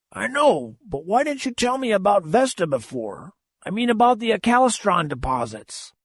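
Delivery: put-on high, puzzled old skipper; old captain voice. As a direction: press the question like a gruff old captain. Old captain questions the narrator.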